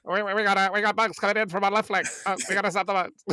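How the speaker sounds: soldier radio callout. Pretend. Game squad callout.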